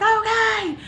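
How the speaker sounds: high, loud mock yell; imitated screamed reply; retold scream. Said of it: "I'm, like, screaming at her".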